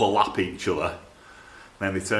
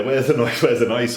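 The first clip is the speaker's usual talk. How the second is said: mock viewer demand; 3 semitones higher, 5 dB louder than usual. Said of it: "Every one of these videos always say".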